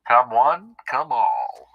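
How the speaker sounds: echoing a barker's call, lightly hammed-up; carnival barker. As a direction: toss back a mock barker's cry. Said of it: "be like a carnival barker".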